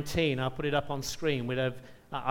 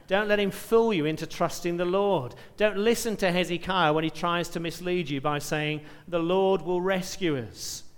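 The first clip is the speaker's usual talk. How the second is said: louder, raised voice calling up to the walls; shouted taunt; 2 semitones higher, 5 dB louder than usual. Acted. Assyrian commander shouting to the people on the walls, taunting. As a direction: shout the threat out to the city like a herald. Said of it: "he then shouts out to the people of Jerusalem".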